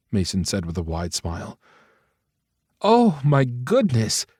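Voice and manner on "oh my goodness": high, slow, drawn-out gasp of joy; shocked delight. Acted. Mother hearing her son's news, high and delighted. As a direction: let the surprise lift the whole phrase.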